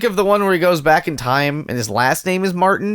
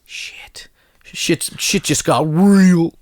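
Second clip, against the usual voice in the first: dramatic whisper; much slower than usual. Retold or imitated. Quoting Bad Boys line.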